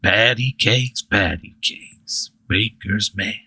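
slow, drawn-out nursery rhyme taunt; lightly menacing sing-song greeting; familiar friendly voice. Acted. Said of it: "familiar, friendly voice".

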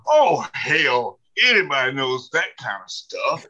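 imitated church lady's disgust; mock exasperation, punching the opening words; scornful dismissal. Church lady dismisses his PhD, scornful.

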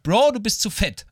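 doctor's verdict through laughter; laughing quote. Retold or imitated. Retelling the doctor's verdict, laughing through it. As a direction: laugh while quoting the doctor. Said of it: "hat gesagt".

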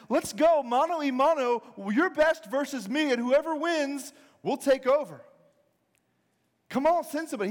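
taunting giant. Acted. Preacher as giant challenging the Israelite army, taunting. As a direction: call out a cocky challenge.

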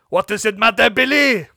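high, loud acted protest; exasperated shout. Hank argues with Billy in story.

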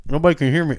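talking through a mouthful of jerky; chewing while talking; mouth full. Real, not acted. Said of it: "you got a mouthful of jerky".

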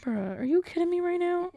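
high incredulous bruh at sister; annoyed disbelief aimed offstage; exasperated sister call-out. Real, not acted.

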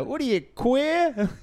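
slow, high squawky seagull voice; high-pitched mock seagull. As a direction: squawk it slowly like a talking seagull. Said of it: "a seagull is like".

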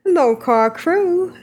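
second go at mock Ren accent, slow; lightly done imitation of Ren's accent. Host restarts Ren's email in his accent. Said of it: "That's my Ren accent".

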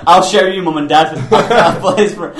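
put-on loud whiny kid tantrum; mock tantrum shout. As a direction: yell at the parents, hammed up. Mocking angry kid.

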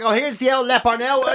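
a touch of pub banter jeer; jeering pub mate. Retold or imitated. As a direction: rib your mate as he walks in. Pub slagging.

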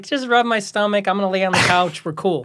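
high, relaxed dog talk; lazy dog voice. Retold or imitated. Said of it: "he's just like".

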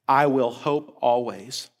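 soft, slow, settled; calm resolved close; quiet affirmation. Shown as a demonstration. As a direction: let it land gently. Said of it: "the writer declares".

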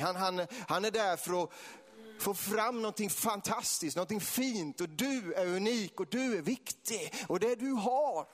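high-pitched, drawn-out revival preaching; passionate preaching. Real, not acted. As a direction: preach it with rising fervour. Preaches at full force. (eldig, högstämd väckelsepredikan)

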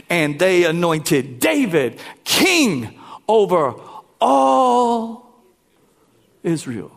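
rising proclamation. Acted. Preacher to congregation, building to a shout. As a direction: swell the voice up to a shout.

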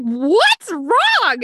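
high, loud mock concern; retold alarm. Bystanders alarmed at sudden sobbing, retold.

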